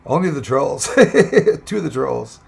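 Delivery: chuckling through the words; laughing. Real, not acted. Streamer laughs while dismissing the trolls, laughing.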